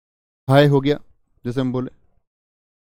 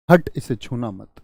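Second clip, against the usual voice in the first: warning; 3 semitones lower than usual. Shown as a demonstration. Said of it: "चेतावनी".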